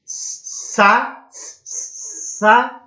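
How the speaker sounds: sa, then saúde split apart; split into syllables. Shown as a demonstration. Teacher splits the word slowly for students. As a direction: separate the vowels sa-ú-de. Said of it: "nós temos o hiato".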